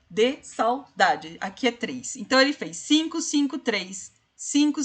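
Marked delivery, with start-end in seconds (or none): 0.1-1.4 "De saudade" slow, at normal volume; drawn out evenly, counting beats; slow syllable count. Shown as a demonstration. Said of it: "deve ser separado".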